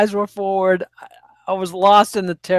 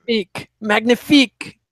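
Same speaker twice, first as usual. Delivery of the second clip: French pronunciation. Acted. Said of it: "my brilliant accent".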